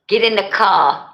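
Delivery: rough attempt at a Boston accent; amateur Boston accent. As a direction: imitate a Boston cop-show accent, dropping the R. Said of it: "that's how they be talking".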